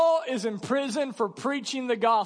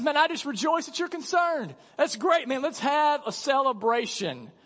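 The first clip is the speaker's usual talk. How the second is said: casual Paul; 5 semitones higher than usual. Retold or imitated. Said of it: "Yeah, he says".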